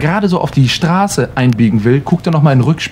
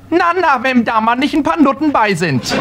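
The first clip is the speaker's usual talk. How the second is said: much higher, knowing granny voice; a cheeky old woman who knows better; knowing old lady; 10 semitones higher than usual. Acted. Granny correcting the policeman, much higher and knowing.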